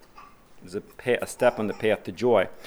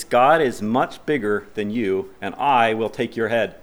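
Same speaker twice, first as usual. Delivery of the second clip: bold declaration; 3 dB louder than usual. Shown as a demonstration. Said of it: "boldly say to the giant".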